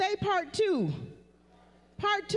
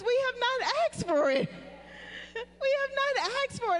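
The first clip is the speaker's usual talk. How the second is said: raised preaching emphasis; 6 semitones higher than usual. Real, not acted. Preacher repeats point, heightened.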